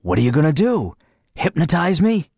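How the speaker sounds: a knowing friend poking fun; friendly, knowing. A narrator's reading. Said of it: "in his friendly, knowing voice".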